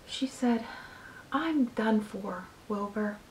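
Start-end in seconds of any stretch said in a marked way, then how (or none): 1.3-3.2 very low voice. A narrator's reading. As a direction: let the words sink almost away. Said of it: "in a voice so low".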